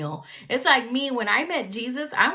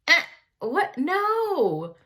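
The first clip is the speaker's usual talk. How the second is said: scoffing disbelief; 8 semitones higher, much slower than usual. Retold or imitated. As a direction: brush it off in disbelief. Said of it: "Nathanael's like".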